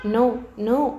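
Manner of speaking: a sharp, pained outcry of denial; anguished cry. A narrator's reading. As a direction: cry out in disbelief at the news. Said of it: "అరిచినట్టుగా అంది".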